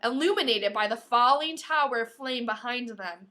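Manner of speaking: loud, slow, intense narration; dramatic reading. A narrator's reading. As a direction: lean into the gore dramatically. Dramatic reading of gory attack.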